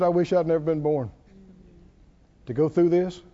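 low, subdued lament; mildly voiced despair of a hurting man; depressed. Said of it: "he went through a big depression".

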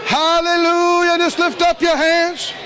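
high, loud shouted hallelujahs; preaching at full force. Acted. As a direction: roar the praise, drawn out. Shouting praise with congregation.

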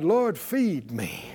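slow, drawn-out call for the church to echo; leading the congregation, slow call-out prayer; slow prayerful lead line. Shown as a demonstration. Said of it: "Say it out loud".

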